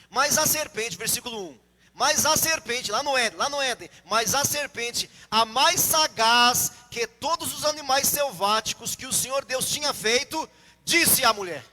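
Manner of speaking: emphatic, measured reading from the pulpit; scripture reading. Acted. Preacher reading Genesis to the congregation, emphatic scripture reading.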